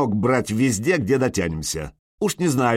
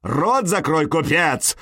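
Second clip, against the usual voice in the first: higher, forceful angry order; full-voice roar; 5 semitones higher, slower than usual. A narrator's reading. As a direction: roar the merchant into silence. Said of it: "взревел Сергей в полный голос". (рёв в полный голос)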